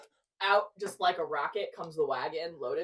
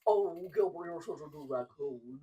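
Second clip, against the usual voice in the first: put-on baby voice. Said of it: "I keep using baby voice".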